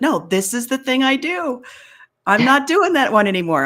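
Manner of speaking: determined declaration; firm refusal. Retold or imitated. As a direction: put your foot down on your own old habit.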